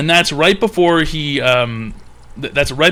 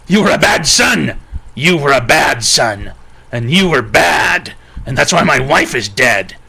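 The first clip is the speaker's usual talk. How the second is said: hammed-up furious dad, shouting at his son; mock angry yelling. Dad yelling while whipping son.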